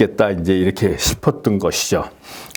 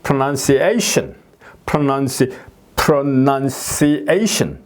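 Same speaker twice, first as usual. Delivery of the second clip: very slow pronunciation, climbing to A then falling; pronunciation drawn out, peaking on A; stress on fourth syllable; 3 semitones higher, much slower than usual. Shown as a demonstration. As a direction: stretch pronunciation, level then up on A and down. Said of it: "올라갔다 내려오는".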